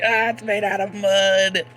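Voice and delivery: high mock kid confessing; high teasing kid giggle; silly kid voice.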